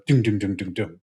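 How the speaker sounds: low, soft imitated thudding; water jug thud. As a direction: mimic a hollow water jug going doom. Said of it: "I heard one go".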